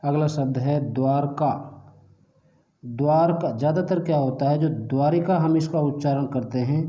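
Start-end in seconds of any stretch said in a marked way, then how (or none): 4.7-5.4 द्वारिका with an extra "i" before का; common mispronunciation. Shown as a demonstration. Teacher shows the common error, द्वारिका with an added short i. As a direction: say द्वारिका in three syllables, dwaa-ri-kaa. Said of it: "वो शुद्ध नहीं है".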